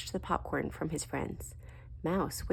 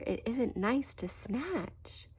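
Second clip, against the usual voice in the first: gentle correction; 6 semitones higher, much slower than usual. Acted. Daddy gently corrects Little Bear.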